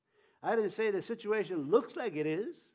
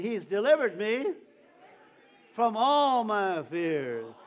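loud, slow declaration with "all" stretched; loud preaching chant, first round; call and response; 8 dB louder, slower than usual. Shown as a demonstration. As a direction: declare it slowly and loudly to the church. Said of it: "Again, say it again".

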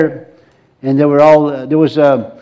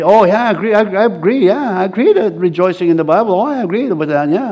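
indifferent churchgoer; 2 semitones higher than usual. Retold or imitated. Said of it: "they mentally assent".

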